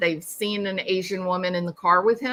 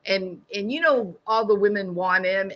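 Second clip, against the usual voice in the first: taunting. Retold or imitated. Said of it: "that's what she said".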